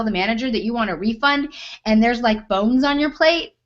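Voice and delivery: loud, exasperated inner rant at a rude diner; indignant waitress thinking out loud. Retold or imitated. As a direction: vent it like you can't believe her nerve.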